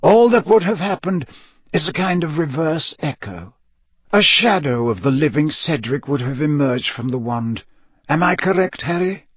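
a hint of a grave old headmaster; lightly voiced Dumbledore. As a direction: explain carefully, then gently check. Voices Dumbledore explaining the echo.

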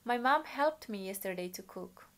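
slow, clear model reading for the class; slow model sentence. Shown as a demonstration. Teacher reading a model sentence aloud slowly for students. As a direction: read it out slowly for them to copy. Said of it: "Hau se le uluk, depois imi le tuir".

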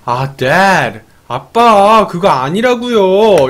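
mildly fed-up protest to dad; hammed-up annoyance, last word drawn out slowly; annoyed daughter. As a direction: push back at dad, a touch irritated. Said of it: "애니가 완전 빡친 거야".

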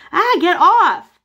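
high, loud, slow strangled yell; pained cry. Acted. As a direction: cry out as you're grabbed. Squeezed by the penguin.

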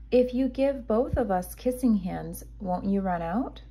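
a hint of a wondering young raccoon; curious child voice. Chester voiced, curious question.

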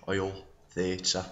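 oil and theatre in a Manchester accent, theatre as "theatə"; Manchester pronunciation. Shown as a demonstration. The speaker reads the word list: Manchester accent. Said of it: "pronounce the following words".

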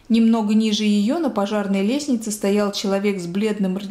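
plain reading voice

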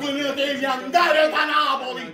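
fan shouting at the coach; angry shout. Real, not acted. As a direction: tell the coach to go, full anger. Tifoso insulta l'allenatore. (urlo arrabbiato contro l'allenatore)

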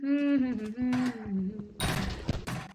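long "hmm-hmm" laugh, mouth closed; drawn-out chuckle. Pretend. Player announcing death time, drawn-out chuckle. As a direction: chuckle slowly to yourself.

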